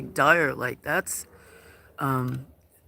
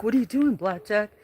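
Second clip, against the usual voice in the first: much higher coaxing pet voice; high affectionate call to the cat; pet talk; 7 semitones higher, 5 dB louder than usual. Acted. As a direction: coo it at the cat.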